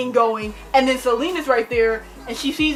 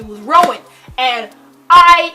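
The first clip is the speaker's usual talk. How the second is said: usual speaking voice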